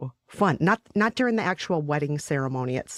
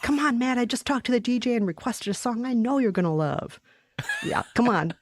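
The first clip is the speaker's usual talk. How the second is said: raised-pitch mock cajoling; playful coaxing; 7 semitones higher than usual. Luring Matt with a song request, playful high coaxing. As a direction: keep pestering a friend in a high, eager pretend voice.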